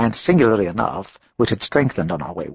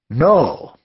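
firmer and louder refusal; 4 semitones higher, 5 dB louder than usual. Acted. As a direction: raise the voice on it. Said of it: "louder, raising his dark head".

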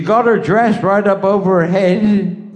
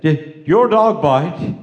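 slow question; slower than usual. Acted. Asking pub man slowly.

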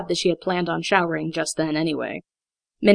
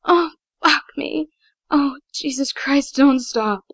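much higher, slow falsetto yell; lusty falsetto; 8 semitones higher, 3 dB louder, slower than usual. Acted. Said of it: "she yelled in a lusty falsetto".

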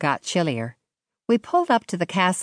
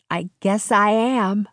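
muffled under the covers; 4 semitones higher than usual. Acted. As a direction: speak as if under a blanket. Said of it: "my voice muffled".

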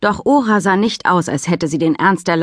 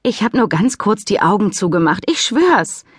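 apologetic; 4 semitones higher than usual. Acted. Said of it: "Mika lächelte entschuldigend".

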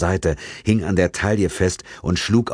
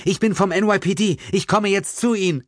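a higher, urgent policewoman voice; lightly voiced policewoman; 14 semitones higher than usual. A narrator's reading. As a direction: reassure the victim from above, urgently.

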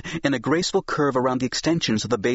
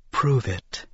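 a little more forceful. A narrator's reading. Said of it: "just a little more forcefully".

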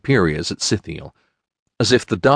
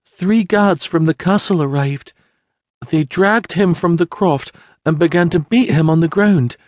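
high, tearful voice near breaking; a widow reliving the night she lost everything; grieving peasant woman; 8 semitones higher than usual. Acted. Mary tells the prince how the guards took her family, tearful and high.

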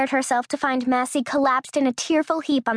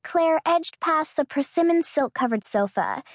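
ordinary delivery, nothing marked

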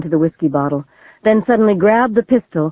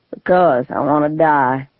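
calm; 2 semitones lower than usual. Acted. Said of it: "the man said calmly".

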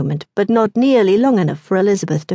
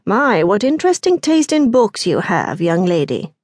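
mildly sarcastic, mock-polite gentleman; a light touch of disdain for her books; understated sneer of a haughty gentleman; dripping with sarcasm. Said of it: "His tone, dripping with sarcasm".

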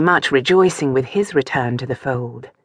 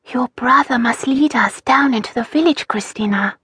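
soft voice; 8 semitones higher than usual. Acted. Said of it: "She kept her voice soft".

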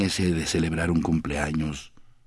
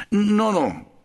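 higher, louder hurried denial; quick protest; 5 dB louder than usual. Acted. Stranger quickly denying López was his friend, hurried protest. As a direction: wave it off fast. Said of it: "protestó el hombre con presteza".

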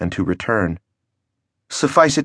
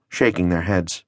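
usual speaking voice

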